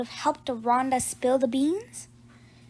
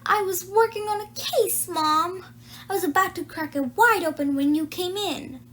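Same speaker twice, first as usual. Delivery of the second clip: higher, complaining protest; aggrieved protest; 5 semitones higher than usual. Acted. Nancy protesting to her mother, mildly aggrieved. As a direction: complain that she spoiled the case.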